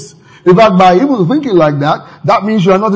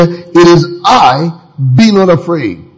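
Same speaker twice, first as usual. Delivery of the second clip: reassuring Jesus; slower than usual. Retold or imitated. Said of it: "he spoke to them directly".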